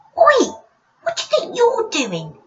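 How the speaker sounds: loud, very high-pitched swooping voice. Narrator reads an unseen voice scolding a character for thumping a tree, high-pitched voice. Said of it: "came a high-pitched voice".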